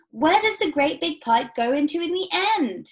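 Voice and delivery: high, loud, alarmed demand; shrieked question. A narrator's reading. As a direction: demand an answer in rising panic. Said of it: "shrieked Missus Salt".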